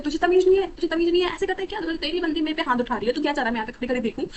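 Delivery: loud, high, furious retold tirade; angry yell. Boyfriend yelling at the girl who stood up to his girlfriend, angry shout. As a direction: yell it at her like an outraged boyfriend.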